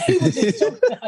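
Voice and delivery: high laughing voice; cracking up, words squeezed out high. Real, not acted. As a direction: laugh through it. Laughing at own story.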